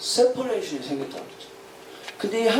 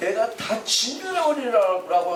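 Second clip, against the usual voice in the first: slow, higher, furious, words spelled out deliberately. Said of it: "하면서 막 화를 내는 거예요".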